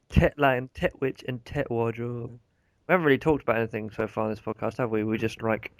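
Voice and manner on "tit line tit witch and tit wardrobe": each "tit" set apart, falling away; stress on TIT. Shown as a demonstration. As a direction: punch "tit" in every pair. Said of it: "It's more emphasis on the tit".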